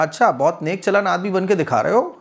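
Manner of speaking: acted jeering sarcasm; sarcastic taunt. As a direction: pretend to be impressed, meaning the opposite. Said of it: "इस तरह से तंज के तौर पर".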